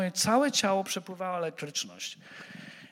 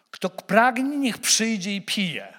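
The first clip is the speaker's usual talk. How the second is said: louder, slow proclaiming call to the crowd; 3 semitones higher, 3 dB louder, slower than usual. Acted. Jesus calling to the festival crowd, a slow, loud summons. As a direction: call it out like an invitation to everyone. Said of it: "zawołał Jezus tak".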